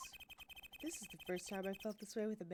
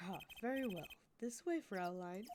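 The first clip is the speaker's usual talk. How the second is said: mock German accent; 3 dB quieter than usual. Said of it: "learn a German accent during the week".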